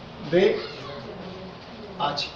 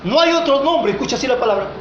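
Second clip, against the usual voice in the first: solemn scripture quote; 3 semitones higher than usual. Acted. Quoting scripture to the congregation. (cita bíblica solemne y pausada)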